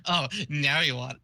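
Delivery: lightly acted dying troll, faltering start; first go at a dying character's voice; Vriska dying. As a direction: try out a mild dying voice. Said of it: "I need to do a dying Vriska voice".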